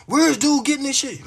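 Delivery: imitating viewers who doubt the Bible talk; skeptical viewers. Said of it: "I know y'all be like".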